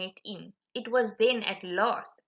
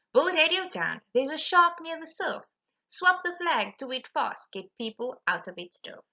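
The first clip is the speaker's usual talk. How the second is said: urgent lookout calling a shark; 6 semitones higher than usual. Acted. Harry calls urgently to Bill.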